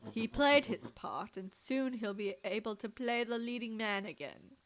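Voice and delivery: smooth scheming villain, lightly voiced; a hint of a gloating mastermind. Streamer voices the villain Sharper.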